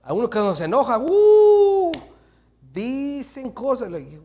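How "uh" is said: a high, loud burst of laughter; laughing yelp. Real, not acted. Preacher laughs at how angry people talk.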